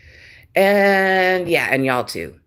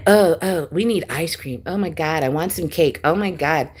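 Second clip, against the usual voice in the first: mocking whiny child. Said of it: "You sound ridiculous".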